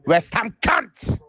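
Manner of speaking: high, drawn-out furious yell; real outraged football-fan yell; fuming shout. Real, not acted. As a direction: bellow the insult in real anger, dragging it out. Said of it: "I'm fuming".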